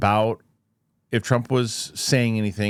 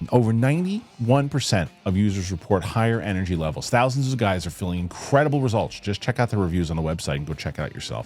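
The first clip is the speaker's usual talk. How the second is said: ad read. Acted. Sponsor read over music.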